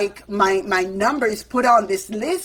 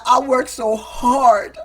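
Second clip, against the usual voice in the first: pleading with the bank; 4 semitones higher, 5 dB louder than usual. Retold or imitated. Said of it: "I was like".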